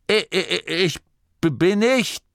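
put-on high, stuttering old man; stammering protest. A narrator's reading. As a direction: sputter an offended objection. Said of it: "Torrid unterbrach sich". (stotternder, hoher Protest)

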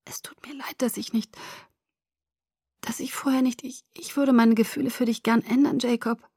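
halting whisper; whisper, stumbling over words. A narrator's reading. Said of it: "hörte mich flüstern". (stockend geflüstert)

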